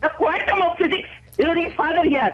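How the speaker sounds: put-on angry modulation; acted anger. Shown as a demonstration. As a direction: demonstrate an angry questioner, drawing out the first phrase. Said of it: "கோபமா".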